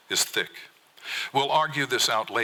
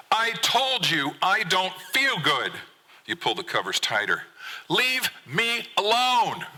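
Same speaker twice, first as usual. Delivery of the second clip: slow, much higher, strained wail; upset son; 10 semitones higher, slower than usual. Acted. Son to dad from bed, slow high wail. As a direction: drag it out like a kid at the end of his rope. Son shouting from under covers.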